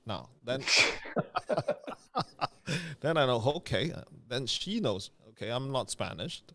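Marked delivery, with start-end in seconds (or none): 0.7-1.9 a quick airy laugh at his own joke; breathy laugh. Real, not acted. Host laughing at his French mix-up, airy laugh. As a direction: laugh it off, unvoiced.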